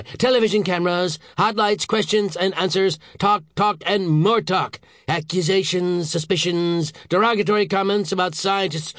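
high-pitched, punched-out list; worked-up, exasperated boss; agitated rant. A narrator's reading. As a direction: reel off the horrors to come. Boss rants at underling.

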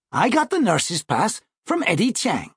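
a hint of a self-assured boy; confident schoolboy brother. Brother explaining his nurse's pass, lightly voiced confident schoolboy.

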